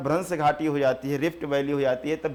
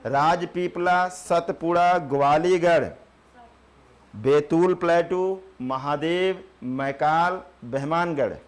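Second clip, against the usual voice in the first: listing slowly; 4 dB louder, slower than usual. Shown as a demonstration. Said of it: "ये सातों हैं".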